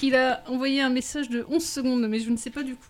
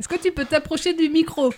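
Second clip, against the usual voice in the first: raised voice, calling to a bad line; 4 semitones higher, 4 dB louder than usual. Real, not acted. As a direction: call out to be heard. Calling to caller on phone.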